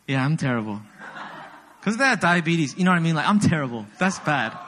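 normal talking voice

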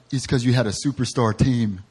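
lightly mocking put-on voice of doubters; a hint of a sneering critic. Pastor imitating people who doubted the team, light mock voice. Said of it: "I don't know why I did that voice".

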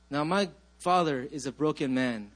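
building sermon. Acted. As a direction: lift the congregation toward God's goodness. Preaching over rising music.

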